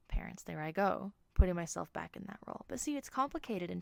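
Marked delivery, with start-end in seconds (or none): 0.1-0.4 parents breathed out through a laugh; laughing whisper. Real, not acted. Laughing at her own correction.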